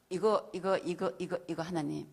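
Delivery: loud, pressing list of grievances; insistent listing. Retold or imitated. Believer listing reasons to leave the church, loud and insistent. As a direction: hammer each point home. Arguing her case to God.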